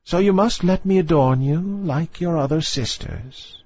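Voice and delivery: put-on a proud old dowager taking her time; old grandmother. A narrator's reading. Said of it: "said the old dowager, her grandmother".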